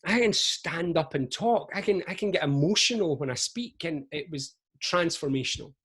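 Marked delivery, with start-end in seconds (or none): 0.0-3.8 high, thrilled voice of discovery; a lightbulb going on, voice jumping up; excited epiphany, pitched well up; sudden realisation. Retold or imitated. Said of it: "I went".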